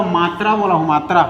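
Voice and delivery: मात्रा stressed and repeated for the class; emphatic repeat. Shown as a demonstration. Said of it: "देखो मैं क्या बोला". (मात्रा शब्द पर ज़ोर देकर दोहराना)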